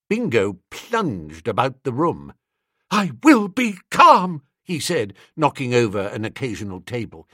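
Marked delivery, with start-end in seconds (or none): 2.9-4.4 louder, slower, straining to stay calm; insisting on calm while clearly frantic; forced calm. A narrator's reading. Bingo crashing about Wooster's room, straining for calm.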